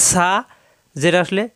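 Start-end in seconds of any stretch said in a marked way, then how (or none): 0.1-0.3 সা with a strong hissed s and open a; whistling sibilant. Shown as a demonstration. Teacher reminding learners that air comes out, whistling sibilant. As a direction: push air out on সা. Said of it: "বাতাস বের হবে".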